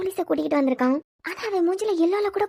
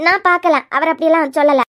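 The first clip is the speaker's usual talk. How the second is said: loud denial; 2 semitones lower, 5 dB louder than usual. Acted. Woman loudly denying she saw.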